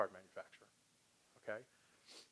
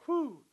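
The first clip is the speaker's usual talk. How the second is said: small acted "whew"; sigh of relief; 13 semitones higher, 4 dB louder than usual. Salesperson hearing good news, mildly relieved sigh. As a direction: let out a modest mock sigh of relief. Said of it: "breathe a little bit of a sigh of relief".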